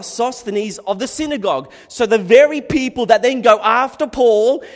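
loud, high, slowing fiery sermon climb; full-force preaching. Acted. Preacher urging the church to keep preaching, loud and fiery. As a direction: thunder it at the congregation like a revival preacher.

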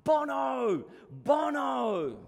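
loud, high shout of a name across the road; yelling out. Retold or imitated. Youth in the van shouting to a stranger, loud high yell. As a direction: call it out loud to a passerby. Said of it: "one of the youth in the van yells out".

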